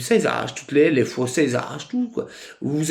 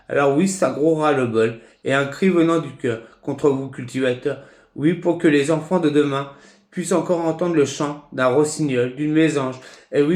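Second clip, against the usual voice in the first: measured recital with pauses between phrases; poem recitation. Acted. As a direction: recite your own protest poem, phrase by phrase. Recites his own poem.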